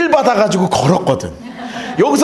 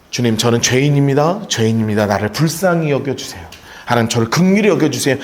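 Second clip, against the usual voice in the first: humble prayer; 10 semitones lower than usual. Acted. Pleading prayer voiced in sermon.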